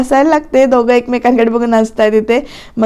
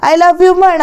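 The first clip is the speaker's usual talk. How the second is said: a mild mock yell demanding the words; half-hearted retold shout; 5 semitones higher, slower than usual. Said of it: "असं म्हणून ती ओरडते". (लटक्या रागात ओरडून मागणी)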